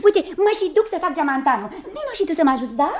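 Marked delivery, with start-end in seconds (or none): 0.1-1.7 high, insistent string of refusals; hasty protest. Acted. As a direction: cut in brightly to overrule your husband. Wife hastily contradicts husband. (protest grăbit, pe ton înalt)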